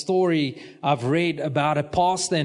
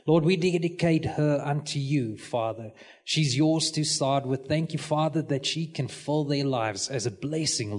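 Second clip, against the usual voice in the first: pastor's prayer; 2 semitones lower than usual. Real, not acted. Pastor dedicating a baby to the Lord, praying. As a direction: pray it out in steady, even phrases. Prays over a child.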